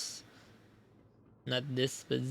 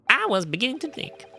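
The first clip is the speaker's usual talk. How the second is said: evil Professor German voice; 6 semitones higher than usual. Acted. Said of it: "evil Professor German voice".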